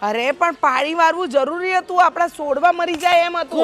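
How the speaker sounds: high, heated insistence; heated defense. Acted. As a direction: stand your ground, pitch up. Wife defends watering the field.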